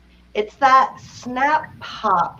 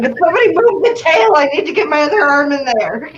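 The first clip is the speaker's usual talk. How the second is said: high-pitched, pressing foaling orders; acted-out hurry, calling for help; urgent; 5 semitones higher than usual. Horse farm worker retelling orders to helpers during a birth, urgent.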